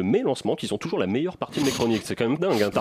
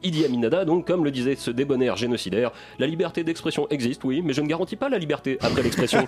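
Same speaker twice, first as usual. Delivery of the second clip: grand theatrical declaiming, raised pitch; hammy stage actor; 6 semitones higher than usual. Acted. Theatrical farewell chronicle, raised pitch.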